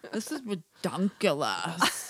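put-on slow, silly Rich Dicks accent. Host imitates the sketch characters, slow Rich Dicks accent. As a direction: stretch it in the crazy Rich Dicks voice. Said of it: "crazy voice they do".

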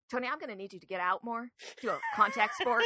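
fast mock advice breaking into laughter; laughing. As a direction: tease the dopey cop while laughing. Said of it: "He's like".

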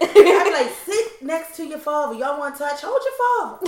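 high, loud laughing. Real, not acted. Mocking telling her family to hug each other, laughing. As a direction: laugh through it, pitched high.

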